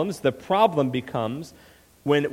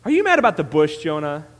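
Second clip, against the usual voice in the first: sarcastic question, raised at the start; lightly sarcastic challenge; God; 5 dB louder than usual. Acted. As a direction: needle him with mock disbelief. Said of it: "tone of sarcasm in both characters".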